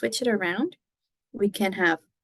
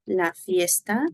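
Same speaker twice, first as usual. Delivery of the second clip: La fiesta es el viernes said very slowly; slow repeat-after-me reading; slow model sentence; much slower than usual. Shown as a demonstration. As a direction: stretch each word out for the class to repeat. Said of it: "repite conmigo, repeat after me".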